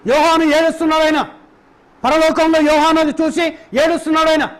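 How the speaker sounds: rhythmic, insistent sermon cadence; fervent preaching. Acted. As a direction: drive each repeated line home to the congregation. Preacher laments John's weeping.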